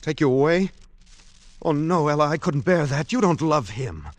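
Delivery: anguished protest building to a cry; distressed pleading. Acted. Charles pleads, distressed, against Ella leaving.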